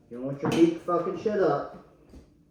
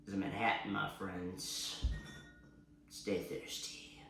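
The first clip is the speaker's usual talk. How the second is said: whispering; 10 semitones lower, 19 dB quieter than usual. Real, not acted. Sign-off trailing to whisper.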